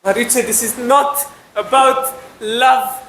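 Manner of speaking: high, slow, drawn-out protest; exasperated pleading. Acted. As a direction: plead with her to stop dodging. Arguing while Mariucci reminisces.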